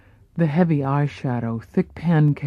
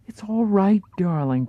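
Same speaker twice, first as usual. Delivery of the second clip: put-on light European accent, gently comforting; soothing European accent; 4 semitones higher than usual. Paula comforting Marilyn, mild European accent. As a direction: reassure her in a hint of European accent. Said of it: "Paula comforted in her curious European accent".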